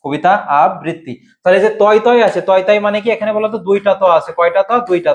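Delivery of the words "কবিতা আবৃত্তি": আবৃত্তি in separate parts, a-brit-ti; careful, segmented আবৃত্তি; model pronunciation. Shown as a demonstration. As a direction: show the doubled t in আবৃত্তি. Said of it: "উচ্চারণটা কি হবে বলো তো".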